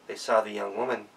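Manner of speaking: plain reading voice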